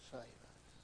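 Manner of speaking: hushed, breathy prayer; soft intimate plea to God; whispered plea. Acted. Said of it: "cry out to the God who loves us".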